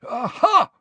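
high loud triumphant cry; triumphant Aha. A narrator's reading. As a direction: pounce on it with a cackle. Filch catching Harry.

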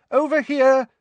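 loud high call over noise. Acted. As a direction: call across a crowded room. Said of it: "called Missus Weasley".

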